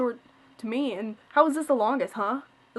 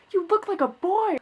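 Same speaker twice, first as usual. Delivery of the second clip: much higher, louder mock mother; retold blunt mom; 9 semitones higher, 6 dB louder than usual. Mom reacting to the short haircut, much higher and louder. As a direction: blurt it like a horrified parent. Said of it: "mom's retort in the dialogue".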